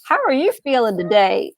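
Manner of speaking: high, playful talking dog voice; cartoon dog. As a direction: squeal it out like a cheerful pet. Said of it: "I'll pretend like I'm the dog and I'll speak for the dog".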